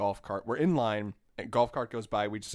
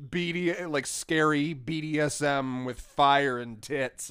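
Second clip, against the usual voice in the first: gushing employee; 4 semitones higher, 8 dB louder, slower than usual. Retold or imitated. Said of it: "And she was like".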